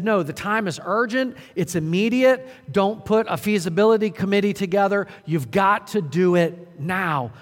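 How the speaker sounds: a hammered-up urgent command; urgent apostle. Retold or imitated. Paul insisting to Timothy that the time is urgent. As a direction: push him to drop everything now. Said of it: "He said".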